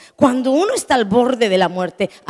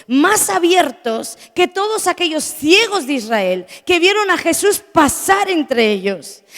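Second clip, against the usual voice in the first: raised, emphatic pulpit voice; forceful preaching; 6 semitones higher, 4 dB louder than usual. Real, not acted. Preacher telling the congregation of Bartimeo's open eyes, forceful preaching. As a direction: drive the point home, pitched high.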